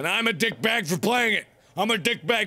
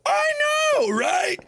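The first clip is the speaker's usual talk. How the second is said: mock Canadian squeal; much slower than usual. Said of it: "And they're like".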